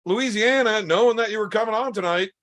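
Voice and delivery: high, fast shouted jab, mock outrage; mock outraged shout. Real, not acted. Scolding the co-host for not planning, mock outraged shout. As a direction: yell the insult at him, fast and high.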